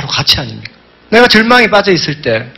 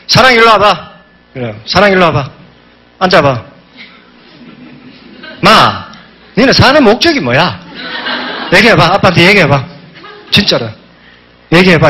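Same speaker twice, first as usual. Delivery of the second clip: tipsy dad voice. Retold or imitated. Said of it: "아버지가 어릴 때 술 드시고 오신 걸 제가 하고 있대요".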